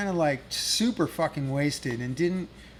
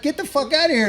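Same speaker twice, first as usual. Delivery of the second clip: mock angry yell; 11 semitones higher, 5 dB louder, faster than usual. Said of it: "They're like".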